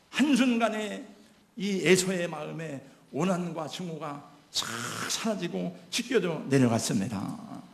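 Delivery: ordinary talk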